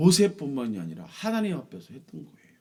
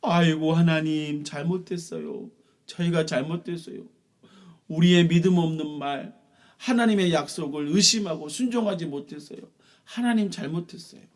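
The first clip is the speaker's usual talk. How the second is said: regretful wailing; 4 semitones higher, 5 dB louder than usual. Acted. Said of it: "후회하고 슬퍼하기 시작했어요".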